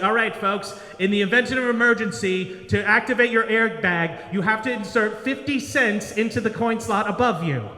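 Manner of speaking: lightly voiced cabin announcer; flight attendant announcement. Attendant to passengers in an emergency briefing, measured announcement. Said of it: "when you sit in the plane, it's just like".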